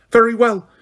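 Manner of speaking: a furious witch at the end of her patience; Umbridge's rage. A narrator's reading. Umbridge at Harry, seething as she draws her wand. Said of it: "she said".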